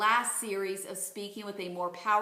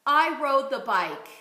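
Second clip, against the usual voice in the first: "I rode the bike" projected clearly; loud model phrase; 3 semitones higher, 6 dB louder than usual. Shown as a demonstration. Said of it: "Let's try this phrase".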